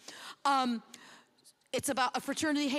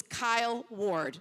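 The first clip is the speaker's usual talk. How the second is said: announcing the winner; much slower than usual. Real, not acted.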